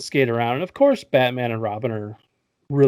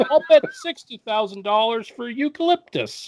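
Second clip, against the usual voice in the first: high-pitched, hammed-up bidder voice; mock rich man bidding; rich auction bidder; 11 semitones higher than usual. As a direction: call out a bid in a silly high voice. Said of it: "these rich guys going".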